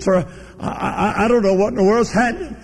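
high-pitched imitation of a distraught woman; retold trembling distress. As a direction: stammer it high and urgent, as if overcome. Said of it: "Her hands were literally trembling".

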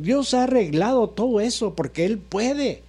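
oración predicada con cadencia ondulante; prédica con fe. Real, not acted. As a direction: proclama y ruega con fervor, frase por frase. (prédica ferviente y rítmica)

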